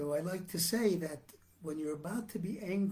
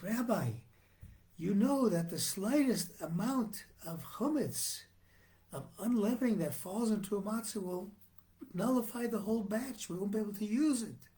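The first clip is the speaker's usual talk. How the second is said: insistent protest; 5 semitones higher than usual. Retold or imitated. Supervisor justifies himself to the rabbi.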